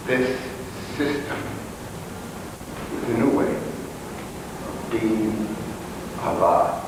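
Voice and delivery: measured poetic recital with long pauses; solemn recitation. Acted. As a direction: recite it like a visionary poem. Recites a visionary monologue.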